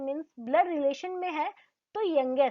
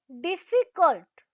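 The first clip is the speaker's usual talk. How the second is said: डिफिकल्ट said slowly in parts, slight pause between syllables; split with pause; 4 dB louder, slower than usual. Shown as a demonstration. Teacher models the syllables slowly for learners. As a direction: pause lightly inside डिफिकल्ट. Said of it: "हल्का सा pause लेते हुए".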